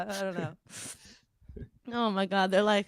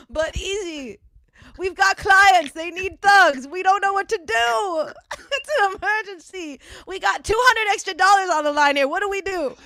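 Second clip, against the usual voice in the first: pleading, higher-pitched worry; flustered underling begging for instructions; mock panicked callers; 6 semitones higher than usual. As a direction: plead helplessly, hammed up. Acting panicked callers pleading with a rapper.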